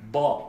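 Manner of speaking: BA with the mouth puffed full, vowel dark and rounded; heavy Arabic BA, towards "bo"; mouth-filled emphatic. Shown as a demonstration. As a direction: swell the mouth on BA. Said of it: "un peu remplir la bouche".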